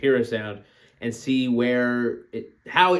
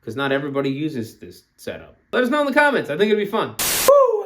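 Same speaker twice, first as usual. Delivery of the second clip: YouTuber voice; 3 semitones higher than usual. Acted. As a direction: pump up the subscribe plea. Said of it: "I gotta do YouTuber voice".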